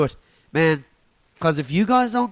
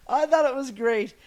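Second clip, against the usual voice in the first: laughing; 4 semitones higher than usual. Real, not acted. Laughing about own joke.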